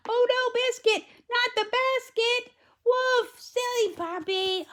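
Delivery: high storybook girl, mock dismay. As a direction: squeal a playful oh no. Girl scolds puppy.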